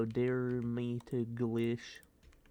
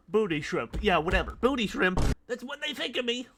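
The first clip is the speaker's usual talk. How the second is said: mocking high voice; 10 semitones higher, 7 dB louder than usual. Rising mocking voice.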